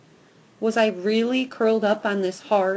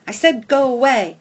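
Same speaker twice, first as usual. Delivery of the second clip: loud, higher insistent command; urgent bark; 4 semitones higher, 8 dB louder than usual. A narrator's reading. Dog warning the squirrel off, loud and urgent. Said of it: "I bark with more urgency".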